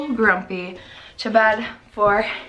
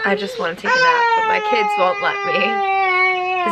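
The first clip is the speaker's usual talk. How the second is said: mock whine; 8 semitones higher, 3 dB louder than usual. Mock crying about no nap.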